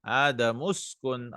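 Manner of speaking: "آدم اسكن" joined into adamuskun; words run together. Shown as a demonstration. Teacher rereading the verse for students, "آدم اسكن" linked as adamuskun. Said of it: "We'll join it here".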